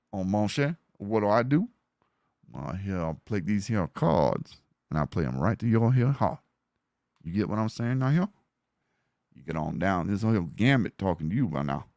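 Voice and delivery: lightly done Louisiana Cajun accent; Gambit. Shown as a demonstration. Streamer demonstrating how he would voice Gambit, in a Cajun accent. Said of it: "whenever you're doing something like Gambit".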